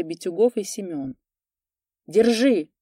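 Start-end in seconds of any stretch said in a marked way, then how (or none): 2.1-2.7 shout. A narrator's reading. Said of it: "кричали они Егору".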